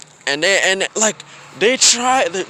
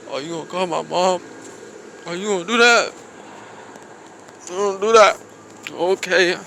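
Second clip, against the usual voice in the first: choked up; 3 semitones higher than usual. Retold or imitated. Holding back tears, mom call.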